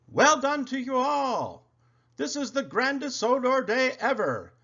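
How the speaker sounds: high, loud, delighted gentleman's voice; beaming praise. A narrator's reading. Sir Topham Hatt praising everyone on Sodor Day, beaming. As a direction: beam with pride as you congratulate everyone. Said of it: "arrived and beamed".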